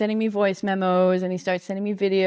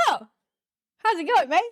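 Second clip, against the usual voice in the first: put-on higher-pitched take on a thick Spanish accent; imitated Spanish accent; 10 semitones higher than usual. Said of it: "thick Spanish accent with, like, imperfect English".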